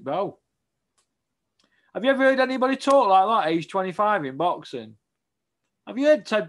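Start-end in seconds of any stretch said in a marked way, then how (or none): 1.9-5.0 fast, louder and higher in disbelief; incredulous outburst. Real, not acted. Asking the interviewer about a slurring fighter, incredulous. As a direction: fire it off, can't believe it.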